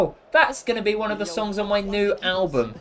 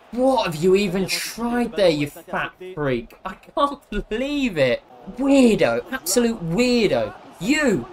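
exasperated scolding; slower than usual. Real, not acted. Berates game teammate over missed pass.

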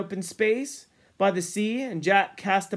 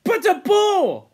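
high, loud, drawn-out protest; voice ringing up; 14 semitones higher, 7 dB louder, slower than usual. Acted. Ralph protesting to Jack about the boar, voice ringing up. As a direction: let the voice ring up in disbelief. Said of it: "Ralph's voice rang up".

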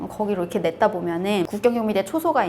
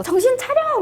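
high-pitched retold cry; urgent rousing call. Couple pulling half-drowned woman out, retold urgent call. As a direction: call out to rouse someone, imitating. Rescuers rouse her, retold.

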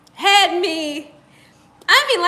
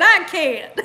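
reading through laughter; 4 dB louder than usual. Retold or imitated. Reads viewer comment, laughing.

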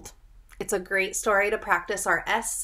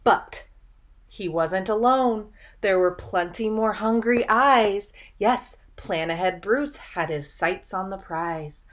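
louder storytelling build; dramatic narration; 4 dB louder than usual. A narrator's reading. Teacher reading the rival's arrival to children, dramatic. Reads rhyming story aloud.

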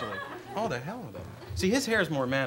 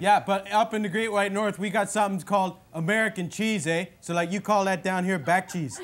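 Bob McKenzie hoser voice; 7 semitones higher, 5 dB louder than usual. Acted. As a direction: play the dopey Canadian brother hosting his bit. In character.

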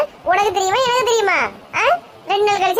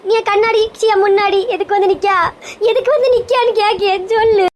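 raised-pitch, demanding tirade; angry scolding; 3 semitones higher than usual. Acted. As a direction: demand an answer, voice climbing. Wife scolding husband in quarrel.

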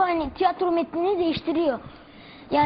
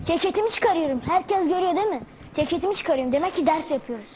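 teacher impression. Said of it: "Türkçe öğretmenimin taklidini yapacağım".

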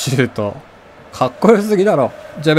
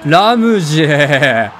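loud, long drawn-out call of the name; excited cheer; 5 dB louder, much slower than usual. Real, not acted. Gamer cheering on Ramsey in a match, excited drawn-out shout.

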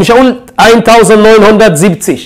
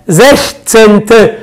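slow syllable demo; much slower than usual. Shown as a demonstration. Teacher slowly sounds out the ordinal for students. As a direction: spell the word out slowly, syllable by syllable. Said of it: "يبقى زيش،".

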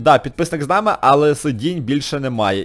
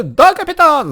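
voicing the kids; 11 semitones higher, 5 dB louder, slower than usual. Answers as the kids.

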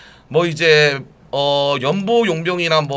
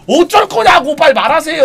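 shouting; 10 semitones higher, 8 dB louder than usual. Pretend. Demanding an answer.

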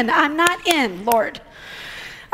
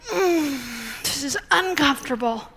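soft uneasy laugh, quieter; awkward laugh; 3 semitones lower, 5 dB quieter than usual. Retold or imitated. Preacher retelling her discomfort with a laugh. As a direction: chuckle it out, embarrassed. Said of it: "I'm like".

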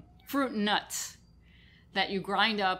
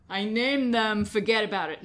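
put-on loud Brooklyn accent, forget about it; 5 dB louder than usual. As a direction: play it up like a Brooklyn wiseguy. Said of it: "You have to do it in a Brooklyn accent".

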